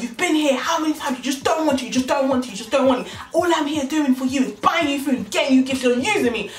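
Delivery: insistent, mock-aggrieved complaint; angry. Man accusing the girl of using him, angry rant. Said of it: "this man is angry".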